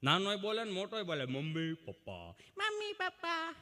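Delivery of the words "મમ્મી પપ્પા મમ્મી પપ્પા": mocking children. Mocking children saying mummy papa.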